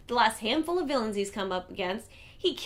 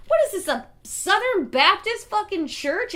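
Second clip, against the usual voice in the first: higher and louder, mocking; a hammed-up sarcastic rant; 8 semitones higher, 6 dB louder than usual. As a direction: sneer at the whole idea. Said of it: "He says".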